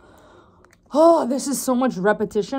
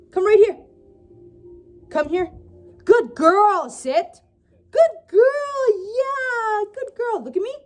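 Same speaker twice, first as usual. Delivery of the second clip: dog voice; 10 semitones higher, slower than usual. Real, not acted. Owner cooing at her new puppy in high baby talk. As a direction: coo up high like talking to a puppy. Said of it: "my dog voice is just hilarious".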